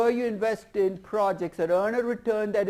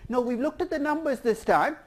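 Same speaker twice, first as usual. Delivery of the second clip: confident pitch pitched higher and louder, numbers slowed; movie guy; 5 semitones higher, 4 dB louder than usual. Acted. Movie guy answering the CFO's refusal, confident and louder. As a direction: insist like a studio exec who did the math. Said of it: "No movie guy talks like this, but act like I do".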